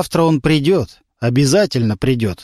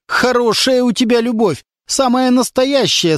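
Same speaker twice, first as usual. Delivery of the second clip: mocking; 9 semitones higher than usual. A narrator's reading. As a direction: drag it out with scorn. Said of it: "с издёвкой сказал Верхотуров". (с издёвкой, медленно)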